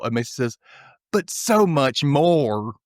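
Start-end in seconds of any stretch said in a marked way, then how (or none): 1.1-2.7 very slow, drawn-out fake American accent; milk every word in a hammed-up American accent; bad American accent. Imitating Mason to the examiner, over-the-top bad American accent. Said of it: "this really horrible American accent".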